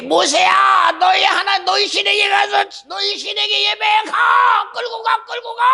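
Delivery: high, desperate shouting king; Pharaoh's shout. Acted. Pharaoh giving in to Moses, desperate high shout.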